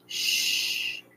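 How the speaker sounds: soft, voiceless shushing; whispered hush. A narrator's reading. Brother hushing his sister in her ear, whispering. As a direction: hush her under your breath. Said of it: "her brother whispered in her ear".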